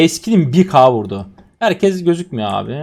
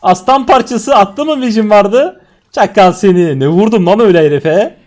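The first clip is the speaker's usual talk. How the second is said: excited exclaiming; 6 semitones higher, 7 dB louder than usual. Real, not acted. Gamer hypes his huge hit on an enemy, loud and excited. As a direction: marvel loudly at the damage.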